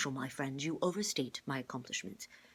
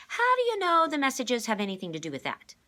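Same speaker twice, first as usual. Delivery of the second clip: put-on higher, louder eager girl; excited girl; 10 semitones higher, 12 dB louder than usual. A narrator's reading. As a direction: burst in, eager. Kate character voice.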